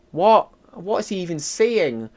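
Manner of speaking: mildly hammed-up confused reaction; mock bafflement. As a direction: act out being utterly lost. Acting out baffled viewers.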